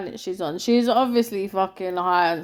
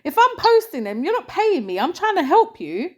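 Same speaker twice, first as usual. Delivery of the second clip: higher-pitched, mildly indignant retelling; retold indignation; 4 semitones higher than usual. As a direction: act out a baffled, mildly mad girl protesting. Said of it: "The girl was getting mad".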